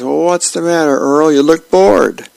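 lightly acted wifely concern; comic-strip wife. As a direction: ask it as a wife prodding her husband. Wife questions husband in comic.

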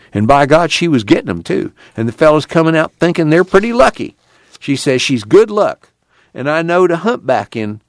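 animated folksy scolding, mildly acted; scornful storytelling. The speaker tells a scornful anecdote.

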